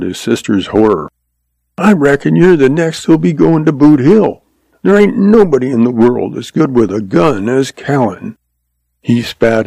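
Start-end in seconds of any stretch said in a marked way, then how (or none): 1.8-8.4 lightly voiced cocky boy, somewhat higher; a hint of a boy bragging about his hero; defiant young boy.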